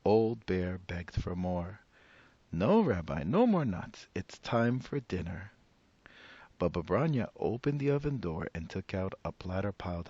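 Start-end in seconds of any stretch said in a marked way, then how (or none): 2.5-5.5 put-on high, bright old granny greeting a guest; old woman voice. Old woman welcoming the rabbi at her door, high and cheery. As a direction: play the cheerful old grandmother.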